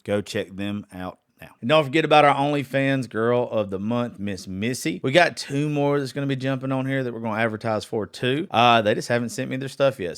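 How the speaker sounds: emphatic, punchy sponsor shout-outs; sponsor read. Real, not acted. Podcast host thanking this month's sponsors, sponsor read. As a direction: read the sponsor roll, hitting each name.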